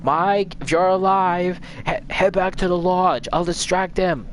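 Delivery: high, urgent retold call across the woods. Buddy shouting to Mike to run for the lodge, in a high urgent call.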